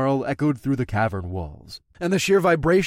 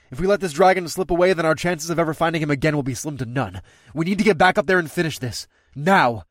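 urgent resolve; 3 semitones higher, 4 dB louder, faster than usual. Acted. Rider urging the crew.

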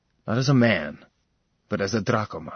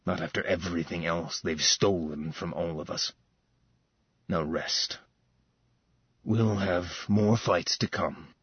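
lightly voiced weary brother; 4 semitones lower than usual. Falcon's voice, story figure.

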